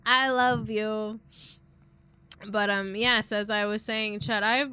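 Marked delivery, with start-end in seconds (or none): 0.0-1.2 slow. Real, not acted. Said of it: "said twice, differently".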